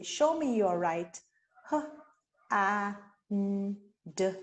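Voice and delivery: letters H, A, N, D said one by one; spelled out letter by letter. Shown as a demonstration. Teacher spelling a word out to students, letter by letter. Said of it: "So you would say".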